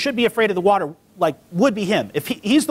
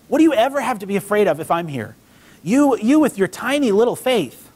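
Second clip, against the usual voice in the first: higher, mildly exasperated appeal; exasperated chiding; 3 semitones higher than usual. Retold or imitated. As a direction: chide a doubting friend, half amused. Acting Jesus chiding doubting Peter.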